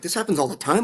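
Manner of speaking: a rising, shocked echo; stunned disbelief. Retold or imitated. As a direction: echo it back, not believing it. Echoing her words in disbelief.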